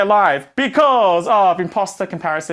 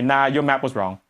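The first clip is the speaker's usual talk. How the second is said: whiny complaint; 6 semitones higher than usual. Retold or imitated. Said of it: "you say".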